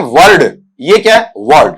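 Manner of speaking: "वर्ड" with the r sounded, like word; wrong pronunciation. Shown as a demonstration. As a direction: say "वर्ड" as vurd. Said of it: "अब गलती आप यहां कर देंगे".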